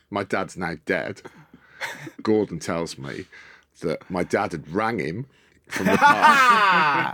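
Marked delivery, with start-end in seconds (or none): 5.7-7.1 laughing. Real, not acted. Laughing at dad's prank.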